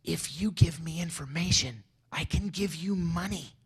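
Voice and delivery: a retold eager pitch, lightly acted; mildly excited foreign diplomat; excitedly. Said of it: "And very excitedly".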